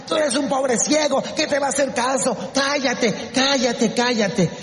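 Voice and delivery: scornful silencing. Acted. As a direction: put the blind man down. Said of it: "la gente lo callaba, la gente lo humillaba". (reprimenda despectiva)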